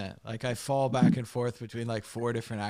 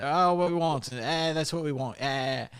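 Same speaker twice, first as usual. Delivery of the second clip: higher-pitched imitation of Irish kids; rough take on Irish kids ordering; mock Irish English; 4 semitones higher than usual. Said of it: "Irish English".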